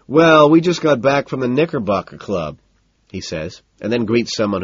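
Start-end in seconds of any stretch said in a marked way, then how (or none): 0.1-2.6 high, loud party chatter; loud, jovial club man; hearty socialite. A narrator's reading. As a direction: brag breezily over the party noise. Owen showing off at party.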